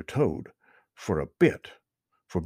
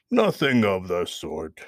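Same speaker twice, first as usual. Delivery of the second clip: snapped; 2 semitones lower than usual. Acted. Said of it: "snapped old Mister Toad".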